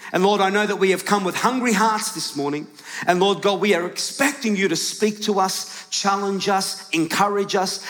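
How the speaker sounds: building congregational prayer, settling on amen; public prayer. Real, not acted. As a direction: lead the room in prayer.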